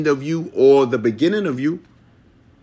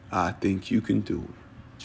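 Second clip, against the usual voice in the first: low, soft and slow; barely voiced, slow encouragement; quiet inner voice; 7 semitones lower, 13 dB quieter than usual.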